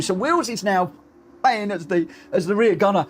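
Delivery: ordinary talk, nothing marked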